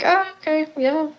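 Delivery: sarcastic. Retold or imitated.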